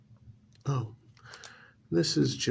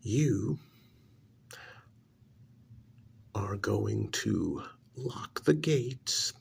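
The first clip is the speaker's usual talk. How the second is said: stern orders. Acted. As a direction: bark the orders at him. Uncle ordering nephew, raised voice.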